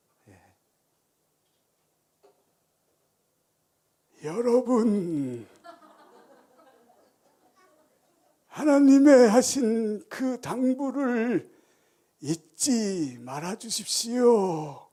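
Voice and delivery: frail, put-on old man voice, very slow. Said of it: "여호수아의 목소리를 좀 제가 ... 들려줘 보겠습니다".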